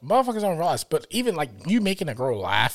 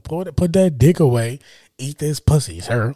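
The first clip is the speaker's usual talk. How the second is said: bossy mock order; 6 dB louder than usual. Bossy retort in mock scene.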